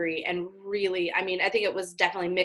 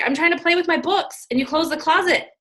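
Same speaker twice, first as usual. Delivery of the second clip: put-on indignant toddler; 8 semitones higher, 4 dB louder than usual. Voicing the daughter's outrage.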